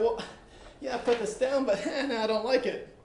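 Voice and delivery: lightly voiced doubtful student; imitating a torn student. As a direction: play the student who can't decide. Teacher voicing an indecisive student.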